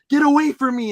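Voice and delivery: high, loud mock snap; imitated angry woman. Storyteller mimics lady pushing into the bin, yelled protest. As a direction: raise pitch and volume to fend someone off.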